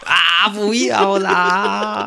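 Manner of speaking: whiny plea. Pretend. Begging not to be cut.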